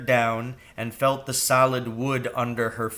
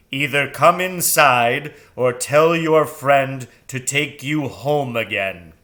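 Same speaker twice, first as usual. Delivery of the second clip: stern owl setting terms; 6 dB louder than usual. Acted. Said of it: "sonorous voice".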